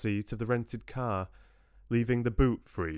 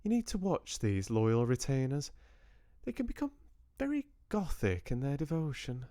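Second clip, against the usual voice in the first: drawled; 6 semitones higher, faster than usual. Acted. Georgia warns about retainers.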